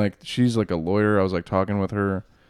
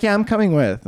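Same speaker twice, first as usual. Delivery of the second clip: mock drunk girl; 10 semitones higher, 4 dB louder than usual. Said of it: "she's like".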